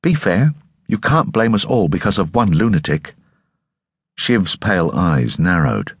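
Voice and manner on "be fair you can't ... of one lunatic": obstinate. Acted. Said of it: "her most obstinate expression".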